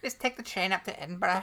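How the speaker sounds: convincing put-on Scottish accent; a Scot planning a trip. Shown as a demonstration. Showing a friend how, Scottish accent. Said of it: "that's really good".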